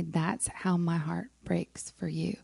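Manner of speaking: soft, slow whisper of God's words; hushed voice of God. Retold or imitated. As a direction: breathe it gently as God speaking. God's words quoted in testimony.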